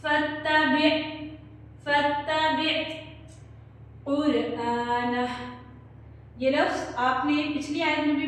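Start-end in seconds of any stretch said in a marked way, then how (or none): 0.0-5.3 फत्तबि with the त्त held doubled. Shown as a demonstration. Teacher shows the shadda on फत्तबि. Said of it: "ता के साथ मिलाकर पढ़ेंगे".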